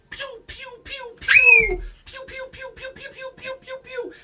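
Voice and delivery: high-pitched rapid pew-pew blaster noises; imitated laser fire. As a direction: play the blasters like a kid's sound effects.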